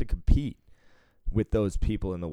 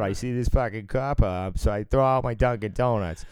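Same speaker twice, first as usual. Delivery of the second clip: cartoon Boston accent; 4 semitones higher than usual. Mocking how movies show Boston guys, cartoon Boston accent. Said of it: "make Boston out to be this fucking cartoon characters".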